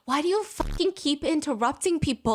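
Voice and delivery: mock-outraged commenter, half laughing; exasperated rant. Commenters fed up with Zizi interrupting, exasperated.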